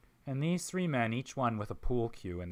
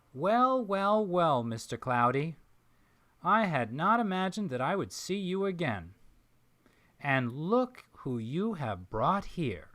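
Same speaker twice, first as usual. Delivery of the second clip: put-on Southern accent; 5 semitones higher, 4 dB louder than usual. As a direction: greet him like a delighted Southern gentleman. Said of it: "in an accent that can only be described as a Southern accent".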